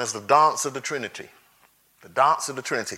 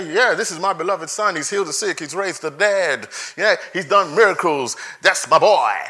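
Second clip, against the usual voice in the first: casual mock quote. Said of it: "No, it doesn't say that".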